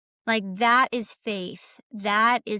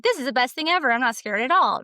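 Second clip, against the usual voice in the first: mock thrill; 3 semitones higher, 3 dB louder, faster than usual. Quoting someone after a few airplane jumps, mildly thrilled. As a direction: lightly act out sudden delight. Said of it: "you're like".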